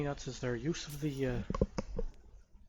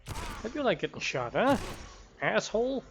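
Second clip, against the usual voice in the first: angry taunt; 8 semitones higher, 4 dB louder than usual. Real, not acted. Shooting an enemy, taunting.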